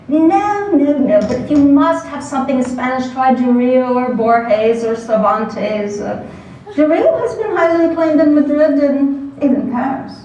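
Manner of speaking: name-drop in a lightly faked British accent; pseudo-British professor. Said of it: "in his crisp, pseudo-British accent".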